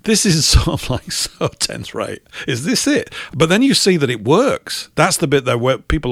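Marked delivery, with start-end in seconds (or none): 0.0-3.1 mocking laugh. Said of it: "I used to laugh at him and going".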